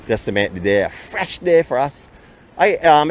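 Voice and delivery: speaking through a face mask; muffled by a mask. Real, not acted. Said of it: "if I sound a little muffled".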